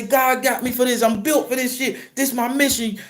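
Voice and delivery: high, insistent mock-crying plea; acted tearful begging. Driver insisting this is his mission, acted tearful begging. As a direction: plead your case in a high, tearful voice. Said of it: "So I'm crying. I'm begging".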